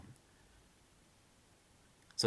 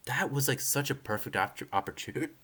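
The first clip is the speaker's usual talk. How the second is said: hiccups; 5 semitones higher, 3 dB quieter than usual. Real, not acted. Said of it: "I'm, like, hiccuping".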